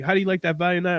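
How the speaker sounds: hammed-up friend voice; friend's voice. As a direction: lift the voice way up as the friend.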